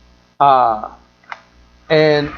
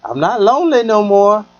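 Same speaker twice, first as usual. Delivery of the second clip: higher, brighter voice of a happy woman; a lightly voiced lady friend bragging; imitating the woman; 5 semitones higher than usual. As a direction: voice her gushing about her new man. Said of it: "She was like".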